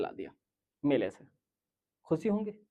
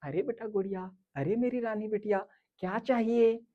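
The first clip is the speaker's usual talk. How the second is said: softer, doting coo; loving parent; 3 semitones higher, 4 dB quieter than usual. Retold or imitated. Parents doting on their daughter at the fair, softly. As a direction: coo lovingly at a little girl. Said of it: "माँ बाप बड़े प्यार से बोलेंगे लड़की को".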